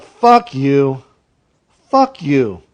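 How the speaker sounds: mock angry fuck you; imitated fuck you. Wanting to tell off a customer, mock angry. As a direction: spit it at the customer in mock anger. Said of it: "you wanted to be like".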